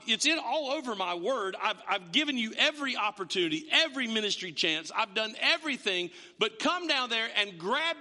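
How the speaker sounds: mildly exasperated, stumbling into emphasis; fed up. Acted. God to people refusing his calling, mildly fed up. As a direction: build from weary restarts to insistent stress. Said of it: "that he's fed up with you".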